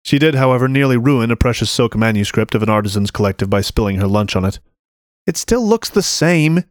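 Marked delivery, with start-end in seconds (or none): 5.3-6.6 high, slow protest. A narrator's reading. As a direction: protest it, pitched up. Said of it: "she protested".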